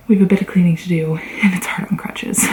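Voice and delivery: slightly out of breath talking; breathless after changing clothes. Real, not acted. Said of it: "I'm also out of breath currently".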